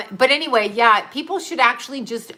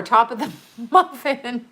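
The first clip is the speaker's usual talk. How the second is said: loud catchphrase; 5 semitones higher, 5 dB louder than usual. Shown as a demonstration. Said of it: "See, I got it".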